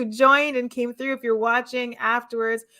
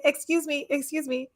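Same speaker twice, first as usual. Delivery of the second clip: higher, softer mock-polite appeal; tentative request; 4 semitones higher, 3 dB quieter than usual. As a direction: sheepishly try to get someone's attention. Acting out asking beneficiaries for refund.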